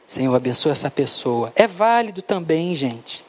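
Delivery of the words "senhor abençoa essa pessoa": low, murmured mock-up of a prayer; lightly acted intercession in a lowered pitch; imitated prayer. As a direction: recite a routine prayer, kept low. Re-enacts praying over a tract.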